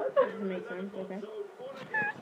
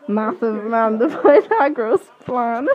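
monotone dark poem; 2 semitones lower than usual. Acted. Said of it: "said in such a monotone but dark, deep way".

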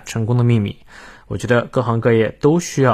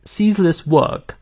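slow, higher British English demo; 6 semitones higher, slower than usual. Shown as a demonstration. Teacher models British pronunciation for learners, British accent. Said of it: "我们来看一下英式发音".

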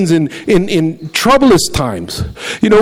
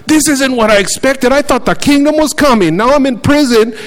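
higher, let-down complaining voice; disappointed John the Baptist; 8 semitones higher than usual. Retold or imitated. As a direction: sound let down by what never came. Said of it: "like John the Baptist did that time".

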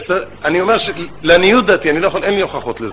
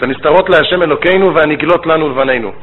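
verse "הנסתרות להשם אלוקינו" recited in Sephardic Hebrew pronunciation; 2 semitones lower than usual. Shown as a demonstration. Rabbi quotes the verse for the congregation in Sephardic Hebrew. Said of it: "אני אגיד את זה בעברה ספרדית".

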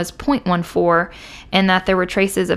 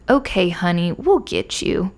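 mocking; slower than usual. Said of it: "in a mocking tone".

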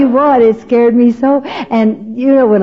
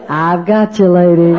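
lightly voiced man, lower and smooth; deep sexy voice; 4 semitones lower than usual. A major catches the falling woman, lightly voiced deep low voice. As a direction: drop the pitch and purr it like a rescuer. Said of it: "This deep, sexy voice said".

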